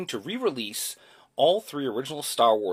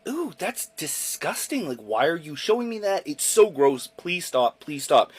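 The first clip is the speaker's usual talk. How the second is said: imitating younger self; 5 semitones higher than usual. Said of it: "And I was just like".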